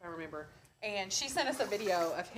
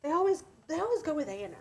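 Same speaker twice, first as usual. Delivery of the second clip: whisper; 5 semitones higher, faster than usual. Real, not acted. Complaining aside to viewers.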